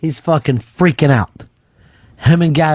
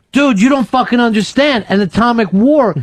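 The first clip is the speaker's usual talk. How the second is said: acted-out frantic insistence, pitched up; exasperated urgency; 5 semitones higher than usual. Host replaying his dream plea to Opie, frantic and exasperated. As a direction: urgently plead with a friend who won't get it.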